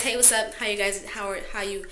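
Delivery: put-on playful Brooklyn accent greeting. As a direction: drop into a light Brooklyn accent. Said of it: "It's my Brooklyn accent coming out".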